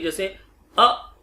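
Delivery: short clipped अ, said slowly as an example; short vowel demo. Shown as a demonstration. Teacher showing a short vowel to students. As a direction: pronounce अ short and light. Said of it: "आप उच्चारण करके देखिए".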